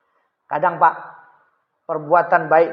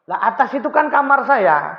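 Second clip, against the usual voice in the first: higher, surprised voice; shocked realisation, pitched up; startled realisation; 6 semitones higher than usual. Acted. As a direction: realize the leak is his own.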